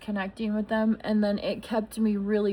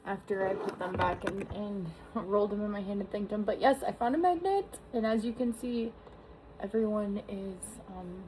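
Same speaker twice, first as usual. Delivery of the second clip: wildlife watching whisper; 7 dB quieter than usual. Real, not acted. Hushed so field stays undisturbed.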